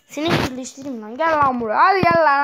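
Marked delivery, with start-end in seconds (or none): 1.2-2.4 mock angry calling. Taunting a mob to come.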